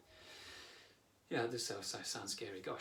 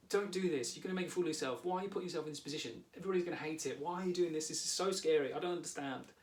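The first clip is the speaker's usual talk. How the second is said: higher-pitched, fretful run of worries; anxious teenage self; 4 semitones higher, faster than usual. Acted. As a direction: plead anxiously like a worried sixteen-year-old. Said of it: "he sort of speaks like this".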